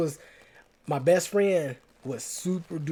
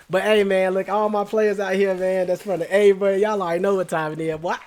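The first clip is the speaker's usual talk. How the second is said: louder, higher put-on Atlanta street talk; Atlanta street accent; 4 semitones higher, 6 dB louder than usual. Hyping up his players in a louder, higher Atlanta street accent. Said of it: "my accent about to change too".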